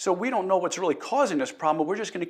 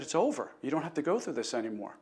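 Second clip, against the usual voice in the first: choked up; 7 dB quieter than usual. Real, not acted. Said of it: "sometimes I get choked up".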